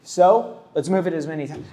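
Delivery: a lightly perky, accommodating artist; cheery tattoo face. Retold or imitated. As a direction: chirp it out like an eager artist. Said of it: "That's my tattoo face".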